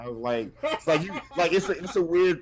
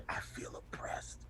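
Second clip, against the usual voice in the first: hushed whisper, drawn out slowly; slow, voiceless mock lament; whispered confession; 17 dB quieter, slower than usual. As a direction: whisper it slowly, as if alone in a closet. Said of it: "and just say".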